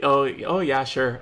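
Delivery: playful Canadian-Minnesotan accent; Minnesota accent. Shown as a demonstration. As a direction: slip into an upper-Midwest accent. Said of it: "Minnesota or, like, Canada or something".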